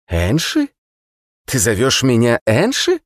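high, scornful prisoner voice; mocking immortal prisoner. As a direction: sneer the name back at him. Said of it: "насмешливо фыркнул". (насмешливый бессмертный узник)

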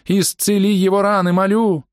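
high pleading cry; pleading prayer. Acted. Healer begs the god to heal the tank. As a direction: beg the god for healing.

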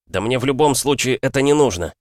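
high, furious outburst; enraged. A narrator's reading. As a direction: explode at him in rage. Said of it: "взъярился я". (в ярости)

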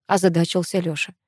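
usual speaking voice

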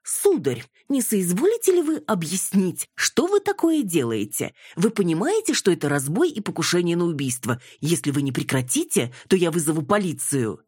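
high-pitched, sarcastically over-polite indignation; mocking. Indignant mother quoting herself to a policeman, mocking. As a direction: deliver an exaggeratedly formal, mocking reproach. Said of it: "Не ёрничайте".

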